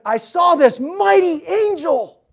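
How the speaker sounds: high, slow, awestruck cry; awed shout. Retold or imitated. John crying out in awe at the mighty angel. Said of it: "John's like".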